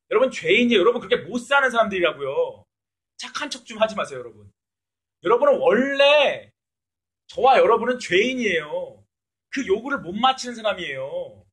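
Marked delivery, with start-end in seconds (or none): 5.2-9.0 loud, slow declaration; emphatic preaching. Real, not acted. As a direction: hammer it home slowly.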